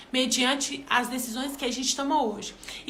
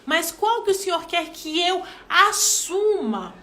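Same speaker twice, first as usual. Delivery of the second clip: praying aloud; 2 semitones higher, slower than usual. Shown as a demonstration. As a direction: ask God slowly, searching for your role. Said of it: "orar e pedir ao Senhor discernimento". (oração lenta e suplicante)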